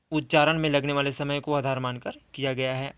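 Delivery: low-key fast reminder; fast quiet recap. Shown as a demonstration. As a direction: run the key phrase again briskly. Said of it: "ध्यान देना".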